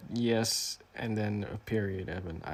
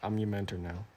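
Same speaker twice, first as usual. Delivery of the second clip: fake deep mentor voice; 2 semitones lower, 4 dB quieter than usual. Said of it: "sounds sufficiently fake deep".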